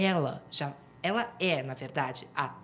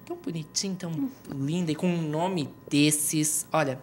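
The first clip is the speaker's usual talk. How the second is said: fast gushing aside; 9 dB quieter, faster than usual. Acted. Host gushes quickly under breath.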